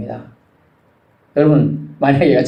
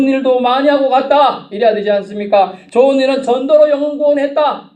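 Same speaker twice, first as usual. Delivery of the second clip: raised, forceful pulpit voice; fervent preaching; 7 semitones higher, 3 dB louder than usual. Real, not acted. Preacher urging believers to leave a good name, fervent preaching. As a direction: press the point home to the congregation.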